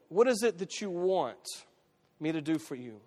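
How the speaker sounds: unhurried, spaced-out asking; deliberate question. Acted. Quotes Jesus's question, first take.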